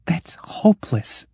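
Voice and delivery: hopeless breathy whisper; despairing whisper. Acted. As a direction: whisper it, all hope gone. Truro despairing in the dark.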